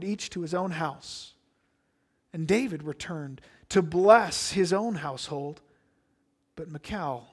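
measured, solemn Bible reading; scripture reading. Acted. Preacher reading scripture to the congregation, measured and solemn. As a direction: read the passage aloud to the congregation. Reads the scripture passage aloud.

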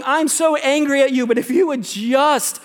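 as God, scold them, then soften into a plea; voicing God pleading. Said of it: "God's waiting, going".

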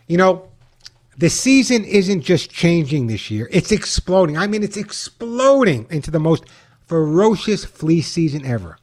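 upbeat radio ad read; chipper 1950s ad. Acted. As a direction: sell it like an old-time pitchman. Host reads his own ad.

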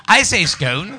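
"scone" said with a long o like "skohn", lightly posh; a hint of plummy English saying "scone" as "skohn". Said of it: "the poshest voice in the world".

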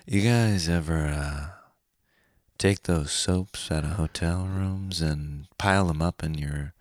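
slow, sleepy observational deadpan; Todd Barry. Acted. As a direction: drag it out with hesitant pauses. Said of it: "This is Todd Barry level".

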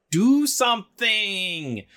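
high, slow, strained plea for help; desperate cry. Acted. Kellen pleading with the magic hilts in battle, a desperate high cry. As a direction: beg the hilts to wake up.

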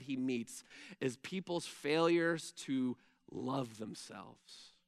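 a pastor hushes his voice to confide with the church, soft and low; hushed confiding. Real, not acted. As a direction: lean in and speak softly to the congregation. Quiet confiding stretch of sermon.

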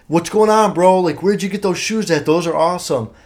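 high, loud hyped-up greeting; mock casual bravado. To the two big guys, a loud fake-casual hello. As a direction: play it cool and overly friendly.

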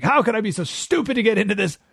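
cursing country mouse. Acted.

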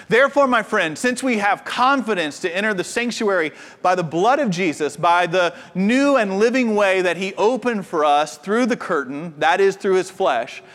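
measured reading of Hebrews; scripture reading voice. Acted. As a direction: read the passage with care.

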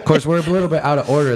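fast, laughing aside. Real, not acted. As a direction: chuckle while rushing the words. Laughing after a shared joke.

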